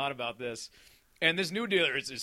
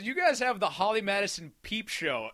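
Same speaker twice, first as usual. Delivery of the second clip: laughing rant; 6 semitones higher, 7 dB louder than usual. Retold or imitated. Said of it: "He goes".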